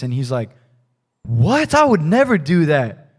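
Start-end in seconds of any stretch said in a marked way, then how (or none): 1.2-3.1 incredulous protest. Acted. Man answering the prophet's grim prophecy, acted incredulous. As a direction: act out a man taken aback, voice jumping up.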